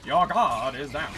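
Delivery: slow, grand and self-important; pompous voice. Acted. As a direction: announce it like a smug conqueror. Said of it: "pompous ass voice to a bunch of spiders".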